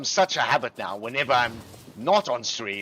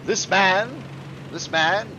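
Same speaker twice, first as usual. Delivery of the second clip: raised, emphatic proclamation; reverent teacher; 7 semitones higher, 3 dB louder, slower than usual. Retold or imitated. English teacher tells pupils about Churchill, grand proclaiming imitation. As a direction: imitate a father solemnly extolling his hero. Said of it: "And he would say".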